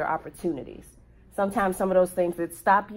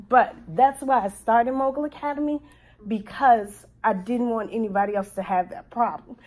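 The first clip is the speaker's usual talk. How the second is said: choked up; 4 semitones higher than usual. Real, not acted. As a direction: voice lifting higher as real emotion breaks through. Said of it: "Oh, I'm getting emotional".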